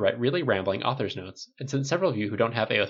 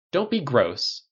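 louder curt snap; snapped; 4 semitones higher, 5 dB louder, much slower than usual. Acted. Tony snapping at the stylist, irritated. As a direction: shut it down sharply. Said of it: "Tony snapped".

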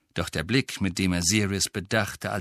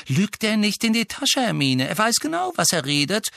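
raised, higher voice, disapproving; hostile retort; 13 semitones higher, 3 dB louder than usual. A narrator's reading. Brother contradicting the girl about the elf, hostile. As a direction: contradict her with open dislike. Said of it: "entgegnete Fred und musterte Creature mit großer Abneigung".

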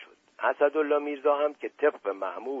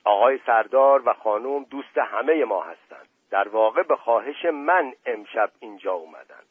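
louder, curt comeback; sharp retort; 6 dB louder than usual. Acted. Dust Ali Khan retorting sharply to the prince, louder. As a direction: snap back, offended. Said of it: "به تندی گفت".

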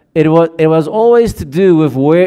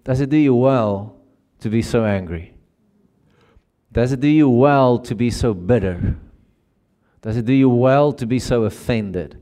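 God's tender question; 2 semitones lower than usual. Retold or imitated. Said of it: "I see God standing in front of us going".

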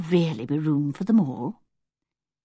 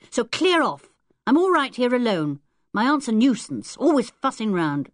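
put-on higher, cheeky boy's challenge; a rude young boy taunting strangers; 5 semitones higher than usual. Ten-year-old telling strangers his aunt will chuck them, rude. Wilfred dismissive.

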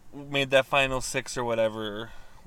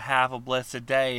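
fake-sweet cashier; slower than usual. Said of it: "she's like".

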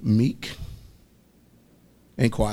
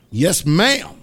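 higher-pitched dutiful reply; deferential yes-ma'am; 6 semitones higher, 4 dB louder than usual. Shown as a demonstration. Preacher showing how he talks at home, dutifully deferential. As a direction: answer up high, obediently polite. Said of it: "I talk like that".

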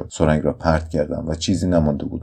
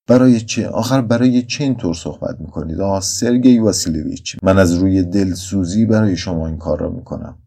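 higher, louder plea that stirs pity; pitiful pleading; 4 semitones higher, 5 dB louder than usual. Acted. Nurse pleading with the addicted doctor, pitiful. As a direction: beg him to stop, out of compassion. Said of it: "با صدایی پاسخم را داد که دلم را به رحم آورد".

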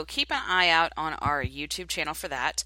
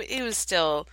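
ordinary talk

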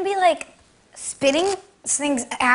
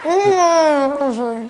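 cheeks stuffed full; 3 semitones lower than usual. Real, not acted. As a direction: mouth stuffed with marshmallows. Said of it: "no one understands what you're saying".

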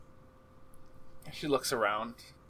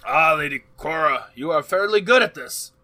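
teasing NPC voice; 4 semitones higher, 7 dB louder than usual. Acted. GM voices NPC praising player.

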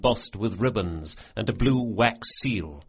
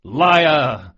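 loud, higher mocking bellow; jeering shout; 5 semitones higher, 8 dB louder than usual. A narrator's reading. Thieves jeering at Carlo's toast, shouting. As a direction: bellow it to mock the boast.

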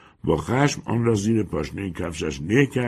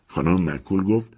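plain reading voice

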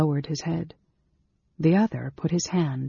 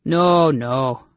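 louder, hasty objection; 5 dB louder than usual. A narrator's reading. Innkeeper afraid of losing money, hasty. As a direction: cut in hastily to stop them. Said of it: "Sleegart said hastily".

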